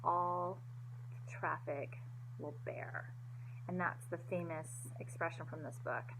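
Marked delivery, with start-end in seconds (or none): 0.0-3.1 "All ... traffic ... will ... bear", slow, spaced word by word; each word emphasized. A narrator's reading. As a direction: set "All", "traffic", "will", "bear" apart with deliberate pauses. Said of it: "He emphasized each word as his reply".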